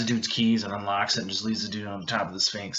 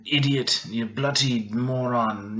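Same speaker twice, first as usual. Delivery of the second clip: put-on British accent. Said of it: "You know, British words".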